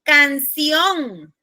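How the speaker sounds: Canción with a long, weighted final CIÓN; stress on canCIÓN. Shown as a demonstration. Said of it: "la entonación está en la on". (Canción con fuerza en la última sílaba)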